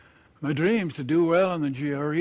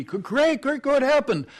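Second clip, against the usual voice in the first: surprised delight; 9 semitones higher, 4 dB louder than usual. Acted. Jack surprised by Kate's change.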